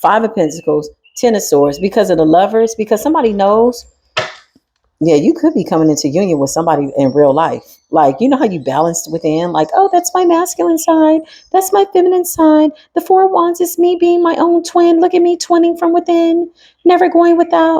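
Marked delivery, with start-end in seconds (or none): 9.7-17.8 put-on very high-pitched, joyful, childlike voice. During a tarot reading, the speaker voices their inner self in a happy inner-child voice. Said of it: "I don't know why I changed my voice to that".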